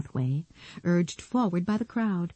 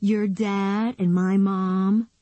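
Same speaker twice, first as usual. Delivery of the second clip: matter-of-fact; 4 semitones higher, much slower than usual. Acted. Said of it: "as if it should have been obvious".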